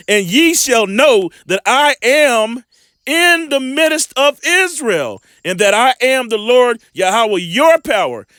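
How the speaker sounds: preacher declaiming scripture slowly; slow, lifted scripture proclamation. Acted. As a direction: proclaim the verse slowly to the congregation. Scripture read aloud in sermon.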